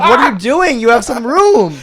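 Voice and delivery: pushy mock complaint; mock exasperation. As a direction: imitate her arguing over space. Acting out the quarrel.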